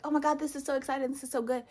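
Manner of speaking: high, gushing delight; excited recruiter. Retold or imitated. Recruiter reacting to her pregnancy, excited. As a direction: imitate someone thrilled at the wrong news.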